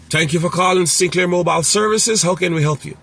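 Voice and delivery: high, bright professional greeting; business phone voice. Shown as a demonstration. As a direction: answer like a polished receptionist. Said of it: "put your business voice on".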